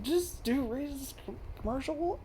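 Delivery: hint of a puzzled inner voice; doubting inner voice. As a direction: murmur it to yourself in suspicion. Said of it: "My brain was like".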